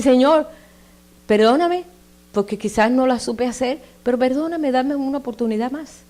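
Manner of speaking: high, earnest plea for forgiveness; pleading prayer. Pretend. Believer asking the Lord for forgiveness, high and earnest. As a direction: beg the Lord sincerely.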